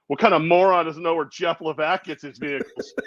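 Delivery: mock scorn breaking into laughter; laughing mock indignation. Joking about a stranger judging him, laughing mock scorn. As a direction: laugh through the imitated put-down.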